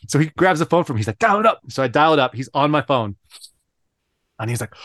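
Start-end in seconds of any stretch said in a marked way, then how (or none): 1.2-1.6 high mock Chinese accent; Lou. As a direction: imitate a curt order in a Chinese accent. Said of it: "he has the thickest Chinese accent".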